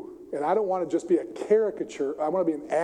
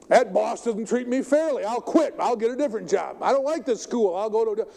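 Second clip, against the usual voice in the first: whiny grumbling, pitched higher; mock complaining; 5 semitones higher than usual. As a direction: play the sulky believer who wants out. Voicing people who want to quit.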